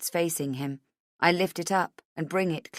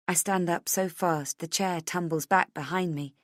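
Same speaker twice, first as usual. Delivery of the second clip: usual speaking voice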